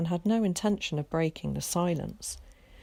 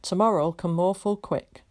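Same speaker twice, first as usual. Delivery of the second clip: comforting; 2 semitones higher, 4 dB louder than usual. A narrator's reading. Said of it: "he added comfortingly".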